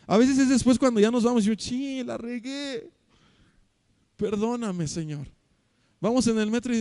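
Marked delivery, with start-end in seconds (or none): 1.6-5.3 soft, slow, contrite prayer; a remorseful sinner praying under his breath; quiet confession. Retold or imitated. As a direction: murmur it as if ashamed before God. Believer repenting after sinning.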